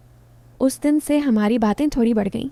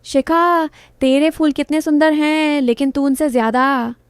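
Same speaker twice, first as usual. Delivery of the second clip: louder, higher call from the street below; calling up loudly; 4 semitones higher, 4 dB louder than usual. Acted. Neighbour calling up to Shikha on the roof, loud call. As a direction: shout it up to the roof, easing down by the end. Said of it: "विवेक नीचे से चिल्लाया".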